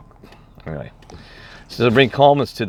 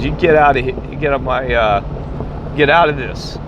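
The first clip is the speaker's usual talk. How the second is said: retold yelling; 4 semitones higher than usual. Security guard orders the peacemaker out, retold yelling. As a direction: imitate an irate guard ordering someone off. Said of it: "the security guard yells at me".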